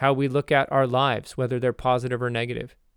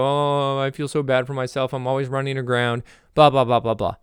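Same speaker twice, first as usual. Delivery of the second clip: mock whine. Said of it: "you complain and you whine".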